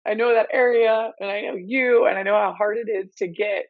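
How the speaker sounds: talking through helpless giggles; real giggly voice, pitch jumping up at the start; giggling. Real, not acted. Podcast guest tickled by the official story, giggling. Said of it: "I can't stop giggling".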